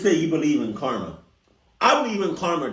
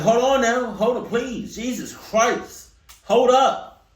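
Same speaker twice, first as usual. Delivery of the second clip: drive-thru worker stalling; 6 semitones higher, 4 dB louder, slower than usual. Retold or imitated. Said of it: "And they be like".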